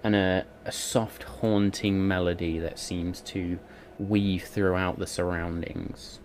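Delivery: slow, hushed storytelling; dreamy scene narration. A narrator's reading. DM sets a tranquil moonlit vision.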